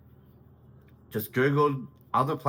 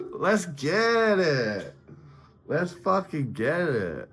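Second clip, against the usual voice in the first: hyped rallying cry; 4 semitones higher, slower than usual. Real, not acted. Hype cry after laughing.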